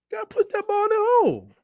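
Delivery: football voice demo. Shown as a demonstration. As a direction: show off the screaming you do at games. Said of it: "Oh, you talking about this".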